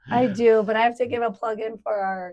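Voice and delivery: raspy cold voice; hoarse voice. Real, not acted. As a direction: talk through a sore throat. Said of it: "I sound terrible".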